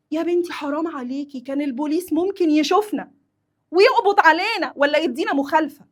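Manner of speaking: acted worried telling-off, rising in pitch and volume; scolding. Passenger scolding friend for driving the wrong way, worried.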